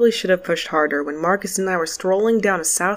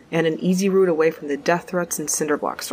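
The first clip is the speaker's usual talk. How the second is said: normal talking voice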